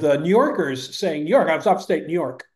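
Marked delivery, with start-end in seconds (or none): 1.2-1.5 "New York" run together like a local; "New York" in the insider's quick blend; native New Yorker pronunciation. Shown as a demonstration. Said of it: "is the way we say it". 1.7-2.5 "New York" blended into one word after "upstate"; "New York" squeezed together, native style; upstate native pronunciation. Shown as a demonstration. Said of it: "is the way we say it".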